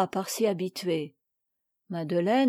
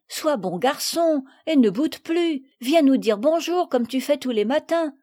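lightly raised coaxing voice; 5 semitones higher, 3 dB louder than usual. Acted. Camille coaxing the sulking parrot, gentle. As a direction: gently coax a sulking bird. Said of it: "dit Camille".

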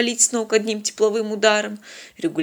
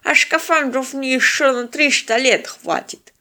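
put-on high, slow old man's scorn; boastful old man; 5 semitones higher than usual. A narrator's reading. Old man turning down spacesuits, scornful boast. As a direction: brag slowly in a high codger's voice.

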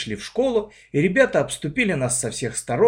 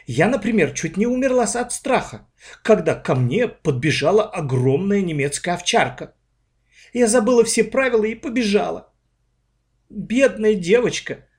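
stricter; 8 semitones higher, 3 dB louder than usual. A narrator's reading. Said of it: "Голос у Оли стал ещё более строгим".

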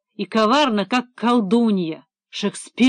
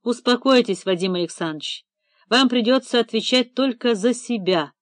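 meaningful. Acted. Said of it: "многозначительно сказал Эдик".

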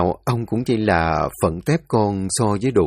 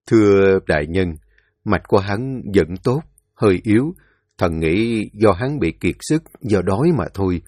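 put-on deferential old physician. Thái y bẩm báo quan. (giọng thái y trầm, khúm núm bẩm báo)

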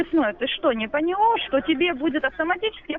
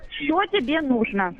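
slow, insistent demand; 2 semitones lower, slower than usual. Real, not acted. Caller demands what they want.

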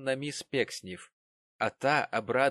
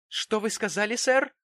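much higher and louder, a sharp squeal; shrill shriek; 11 semitones higher, 7 dB louder than usual. A narrator's reading. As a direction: screech the question at him. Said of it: "резко взвизгнула".

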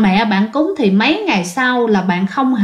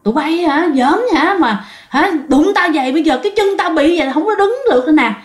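higher-pitched mock telling-off; retold scolding; 5 semitones higher, faster than usual. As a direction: scold the culprits, quickening at the end. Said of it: "trời, chửi". (giả giọng chửi mắng, cao giọng)

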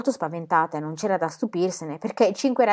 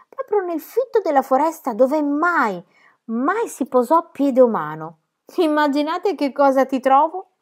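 storyteller Pippi; 7 semitones higher, 4 dB louder, slower than usual. Acted. Pippi spins a tall tale.

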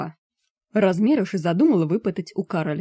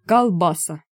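«Колбаса!» said loud and proud; beaming foreigner's triumph; joyful pride; 5 dB louder, slower than usual. A narrator's reading. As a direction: proudly show off the new word «Колбаса!». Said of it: "повторил он с радостной гордостью".

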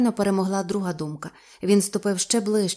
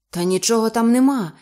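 reassuring; 3 semitones higher, 6 dB louder than usual. Acted. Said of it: "заспокійливо сказав Ейб".

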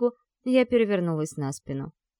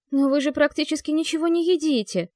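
mild protest; 6 semitones higher than usual. A narrator's reading. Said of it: "попыталась возразить эмпатия".

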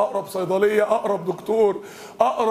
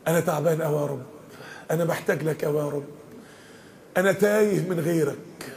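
pleading prayer; 4 semitones lower than usual. Acted. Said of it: "وتبدأ تطلب منه وتقول له". (مناجاة حزينة هادئة)

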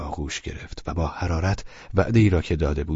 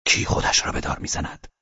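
alarmed; 3 semitones lower than usual. Acted. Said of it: "ولچانینوف وحشت زده پرسید".

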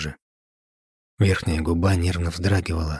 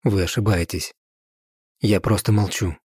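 holding back tears; 2 semitones higher than usual. Acted. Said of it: "сглотнула ком".

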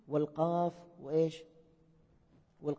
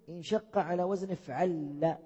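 slow quoted question; slower than usual. Shown as a demonstration. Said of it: "ما رأيكم في أحدهم يقول".

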